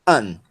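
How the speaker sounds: "An" alone, drawn out with falling pitch; isolated, deliberate "An"; stressed syllable demo. Shown as a demonstration. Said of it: "Essa é a sílaba tônica".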